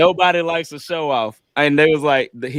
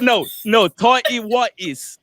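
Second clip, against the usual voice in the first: put-on slow high British accent; 5 semitones higher, slower than usual. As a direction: drawl tighty whities like a Brit. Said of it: "say it in a British accent".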